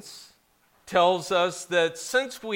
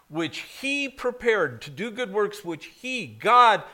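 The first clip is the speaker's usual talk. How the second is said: "God" punched much louder; stress on God; 5 semitones higher, 3 dB louder than usual. Shown as a demonstration. Pastor correcting the emphasis for the congregation, "God" stressed loud. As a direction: hit the word "God" hard. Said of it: "The focus here is on God".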